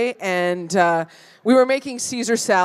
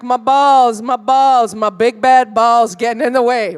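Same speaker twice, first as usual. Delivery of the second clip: hammed-up guy whining about his balls, louder; mock whiny guy; 4 dB louder, slower than usual. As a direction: whine it like a put-upon dude. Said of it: "guys are always like".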